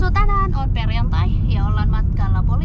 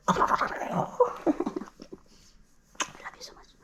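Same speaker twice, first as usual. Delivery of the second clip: tender whisper; unvoiced tender whisper; 6 semitones higher, 12 dB quieter, much faster than usual. Real, not acted. Whispering to the baby.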